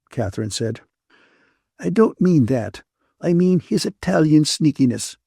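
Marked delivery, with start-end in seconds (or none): 1.8-5.2 higher-pitched scolding woman's voice; cross Ferguson, scolding. A narrator's reading. Ferguson rebukes the man who got Catherine into a mess, scolding. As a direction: scold them as the disapproving friend.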